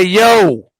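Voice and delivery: drawn-out mock plea, stretching "dying". Coaching a friend what to say at the hospital, mock dying plea. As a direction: complain you're dying in slow, stretched words. Models what to yell at desk.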